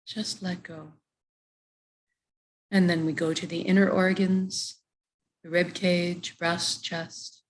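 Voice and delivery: calm body-scan voice with long pauses; guided meditation. Real, not acted. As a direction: lead them body part by body part into relaxation. Leads a body relaxation meditation.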